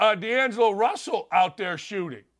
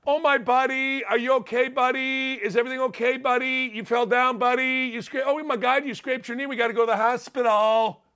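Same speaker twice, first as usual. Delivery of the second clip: mocking coddling. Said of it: "That's what clowns say now".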